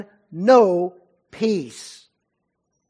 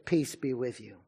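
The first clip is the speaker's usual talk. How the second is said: soft and gentle, without reproach; calm, compassionate; 5 semitones lower, 9 dB quieter than usual. Retold or imitated. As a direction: say it quietly, like forgiving a friend. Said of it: "Very calmly and compassionately".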